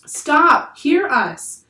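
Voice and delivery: high, loud call. A narrator's reading. Annie calls out to the crew, high and loud. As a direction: cry out over the crowd.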